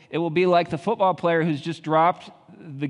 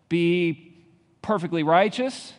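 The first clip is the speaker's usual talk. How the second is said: ordinary talk, nothing marked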